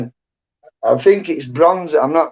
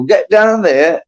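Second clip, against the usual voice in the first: higher, drawn-out mock command; calling to horse; 5 semitones higher, 3 dB louder, slower than usual. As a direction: send the horse off with a slow call. Ordering horse down the field.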